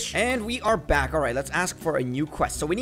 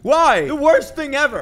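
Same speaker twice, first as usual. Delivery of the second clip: frustrated; 8 semitones higher, 7 dB louder than usual. Real, not acted. Losing the catch.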